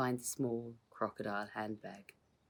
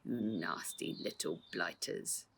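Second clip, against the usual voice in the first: menacing. Acted. Crook menacing children.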